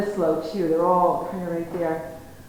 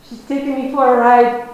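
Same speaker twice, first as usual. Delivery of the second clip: loud announcing; 3 semitones higher, 10 dB louder than usual. Retold or imitated. Farmer tells the counter girls.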